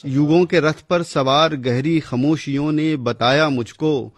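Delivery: measured, declaiming verse recital; poem recitation. Acted. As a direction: recite like a poet at a gathering.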